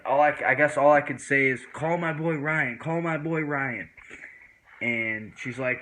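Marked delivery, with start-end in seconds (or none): 1.7-3.9 slow, higher drawn-out repeated request; stoned pleading. Retold or imitated. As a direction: act out a dazed plea for help. Stoned plea retold.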